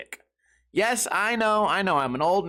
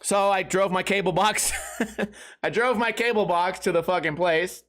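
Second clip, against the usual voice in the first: laughing. Real, not acted. Laughs retelling cable box return.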